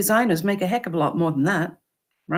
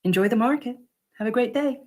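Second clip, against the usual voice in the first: smiling goodbye; 4 semitones higher, faster than usual. Shown as a demonstration. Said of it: "You smile and say".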